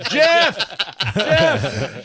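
mock shout, loud and high; calling out. Host jokingly summons the kid to explain the homework, calling out. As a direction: holler the name as if summoning him. Acts out calling Jeff over.

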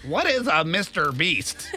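slow, mocking nerdy take; mocking imitation. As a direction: stretch it out like a clueless grandma. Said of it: "That's not the way I said it, actually".

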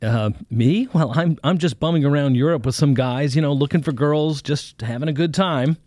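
put-on a young student fumbling for an excuse; nervous young man. Young man caught out, nervously bluffing to the preacher.

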